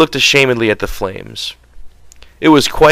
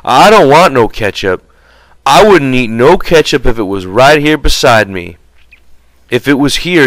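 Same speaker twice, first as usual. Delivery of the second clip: put-on childlike Lennie, a little raised and sulky; lightly voiced Lennie, pouting and stubborn; a hint of a big simple man sulking; 3 semitones higher, 3 dB louder than usual. Lennie sulking about ketchup.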